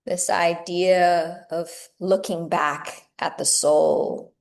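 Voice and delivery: measured meditation guiding with long pauses; guided meditation. Acted. Teacher guiding yoga teachers into meditation, unhurried meditative delivery. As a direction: lead them gently inward, phrase by phrase, leaving space between thoughts.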